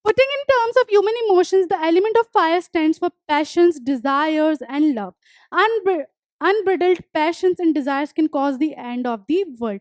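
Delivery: deliberate dictation pace, each word spaced; slow textbook reading. Acted. Teacher reading the poem notes aloud to students, slow and deliberate. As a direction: read the line out slowly for the class to copy. Reads textbook line slowly.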